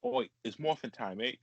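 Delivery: put-on jokey Australian accent with a matey lilt. Joking about an Australian dub of the show, mock Australian accent. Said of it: "like, an Australian accent".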